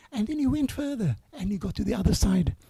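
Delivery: ordinary delivery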